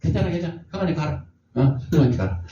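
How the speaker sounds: softly, calm and reassuring; gentle reassurance. Retold or imitated. Elisha softly reassures the worried general, calm. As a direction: soothe him, let him go in peace. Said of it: "그랬더니 엘리사가".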